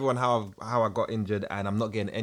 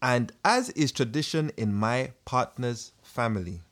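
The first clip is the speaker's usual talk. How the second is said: put-on Ugandan accent. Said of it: "In the Ugandan accent, as requested".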